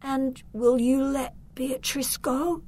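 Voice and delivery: high, whispery, slow question; weak voice. A narrator's reading. Victor timidly asks his uncle for mercy, weakly. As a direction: ask it feebly, almost all breath. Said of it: "in a weak voice".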